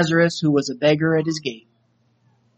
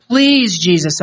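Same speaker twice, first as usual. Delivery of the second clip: begged; 2 semitones higher, 4 dB louder, slower than usual. Acted. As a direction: plead as if it's the last chance. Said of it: "I begged".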